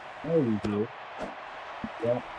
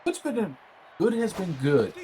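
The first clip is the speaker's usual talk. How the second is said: excited shout; 8 semitones higher than usual. Real, not acted. Punning call, shouted.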